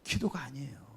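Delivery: soft whisper, 기도가 breathed with a falling tune; whispered aside. Real, not acted. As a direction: lean in and whisper 기도가 아니에요 to drive it home. Repeats the point in a whisper. (기도가 아니에요를 속삭이듯 힘주어)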